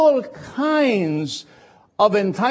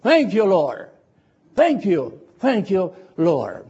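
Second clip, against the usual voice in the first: spontaneous thanks; slower than usual. Shown as a demonstration. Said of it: "spontaneously we shall say".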